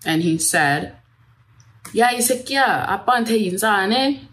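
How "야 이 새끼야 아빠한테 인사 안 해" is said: higher, fast Korean yell at his wife; hammed-up furious Korean outburst, rushed; retold yell in Korean. Husband yelling at wife in Korean while slapping her, higher and fast. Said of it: "yelling at me in Korean".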